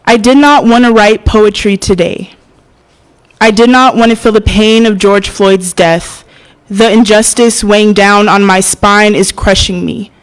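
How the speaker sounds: measured, emphatic poetry recitation; spoken-word poem. Acted. Poet performing her George Floyd piece to an audience, spoken-word delivery. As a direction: deliver it as a protest poem, line by line.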